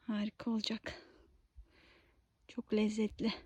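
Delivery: soft unvoiced whisper. Real, not acted. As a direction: keep it to a whisper. Whispering while foraging.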